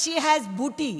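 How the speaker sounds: "booty" said for vibhuti, stress on has; woman mangling the word vibhuti as "booty"; mispronounced vibhuti. Retold or imitated. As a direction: imitate her saying "booty" for vibhuti. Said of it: "she did not know how to say vibhuti".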